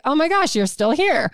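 high, mock-astonished doctor; imitated amazement. Wife imitating doctors at appointments, amazed he survived. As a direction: act taken aback to see him. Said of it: "have that look like".

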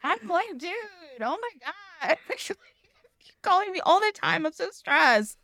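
mock frazzled whining; stressed Jesus. Jesus groaning about being called all the time, mock stressed. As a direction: act swamped and overwhelmed. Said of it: "He's like".

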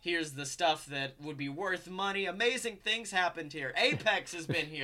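casual mock sales pitch; salesman patter. Atticus showing visitors round his father's lair, lightly voiced sales patter.

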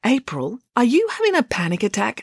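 kind, careful inquiry; kindly. A narrator's reading. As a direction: ask with mild concern. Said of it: "asked Loretta kindly".

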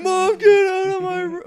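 loud high slow yell at mom; high loud screaming teen; mock yell. Shouting at mom.

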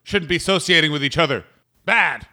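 put-on high, punchy calls to the kids; mock scolding. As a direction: call out and tick off some kids. Heckling children in a bit.

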